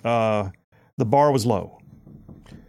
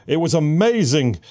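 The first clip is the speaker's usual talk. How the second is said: sarcastic; 4 semitones higher, 3 dB louder than usual. Pretend. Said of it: "No, it wasn't".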